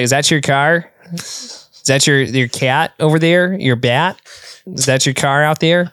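put-on broad Fargo-style Midwest accent; exaggerated Midwest accent. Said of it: "he leans in, he's like".

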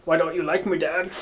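soft, mild fake tearfulness; understated mock sob story; attempted crying. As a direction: try quietly to sound hurt and tearful. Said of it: "to cry for you".

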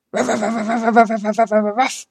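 loud, high barking with a laugh; mama cat barking. Acted. Mama cat barking at the dog to chase it off, loud. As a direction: bark right back to scare the dog off. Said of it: "She barked at the dog".

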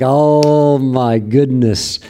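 a preacher voicing an old prophet's astonished woo; amazed joyful whoop. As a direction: burst out in wonder at the revelation. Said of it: "Bevington was like".

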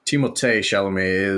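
"Timothée" said French-style, tee-mul-TAY; a light French "tay" ending on "Timothée"; French flair. Shown as a demonstration. Podcaster introducing the lead actor, "Timothée" with French flair. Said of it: "throw that little French flair on there".

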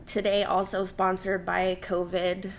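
stuffy nose from a cold; blocked nose. Real, not acted. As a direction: talk through a blocked nose. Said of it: "I can't breathe through my nose".

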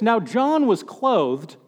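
very slow, deadpan reading; slow mock reading. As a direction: read it out slow and flat. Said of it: "something like this".

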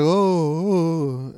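drawn-out mock "oh" moans; imitated groaning. Retelling his friend's reaction to the fall, mock groaning. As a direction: imitate someone moaning after a spill. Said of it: "making those people noises".

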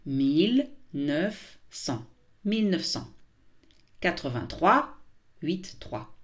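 very slow, each number spaced out; slow repeat. Shown as a demonstration. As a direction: spell out the year slowly for learners. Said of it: "je répète lentement".

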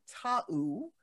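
"Tau" said like "tow" rhyming with cow; pronounced Tau. Shown as a demonstration. Host explains her cat's name to listener, saying "Tau" carefully. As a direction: spell it out then say "Tau" clearly, as one syllable with "ow". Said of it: "his name is pronounced".

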